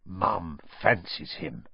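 slow, soft, low stage whisper; audible whisper. A narrator's reading. Son teasing about his mother's crush, stage whisper. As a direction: whisper slyly so everyone hears. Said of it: "in a very audible whisper".

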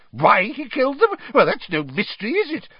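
high, loud scornful bluster. Acted. Fudge blustering at Dumbledore's question. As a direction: scoff at the question. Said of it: "blustered Fudge".

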